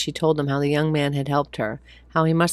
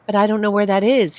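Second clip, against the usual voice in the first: put-on child voice; 5 semitones higher, 6 dB louder than usual. Sunny voiced.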